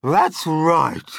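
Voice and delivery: loud, high backing-up; emphatic declaration. A narrator's reading. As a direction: declare it forcefully. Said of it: "Aunt Sponge declared".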